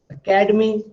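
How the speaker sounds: "academy" stressed on its second syllable, ca. Shown as a demonstration. Teacher showing students word stress, "academy" stressed on ca. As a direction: lean on the CA in "academy". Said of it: "then ka is stressed".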